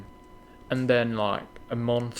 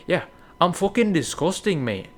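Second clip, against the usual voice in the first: self-mocking outburst; 7 semitones higher, 6 dB louder than usual. Real, not acted. Mocking own hygiene.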